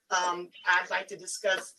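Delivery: hoarse, raspy morning voice; a real rasp in the throat. Real, not acted. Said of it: "I apologize for my raspy voice".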